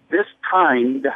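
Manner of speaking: "kind" drawn out and set off by a pause; stress on "kind". Shown as a demonstration. Caller quoting Scripture to radio host, stress on "kind". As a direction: lean on "kind", then pause after it. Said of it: "emphasis on kind".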